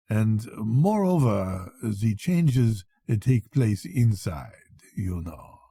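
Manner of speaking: slow, a hint of a knowing doctor; sly old doctor. Doctor hints to the sailor with a quiet joke, slow. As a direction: drop it like a private joke, slowly.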